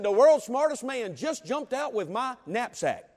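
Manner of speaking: put-on Boy Scout revealing the knapsack mix-up, gleeful; gleeful punchline. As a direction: drag out the payoff slowly.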